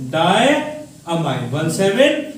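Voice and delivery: slow, stretched डायमाइन; drawn out. Shown as a demonstration. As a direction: stretch डायमाइन out slowly, syllable by syllable.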